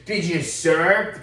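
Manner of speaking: repeating the question to the Texan, slowly and pointedly. Retold or imitated. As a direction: drag it out like a loaded challenge. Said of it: "He goes".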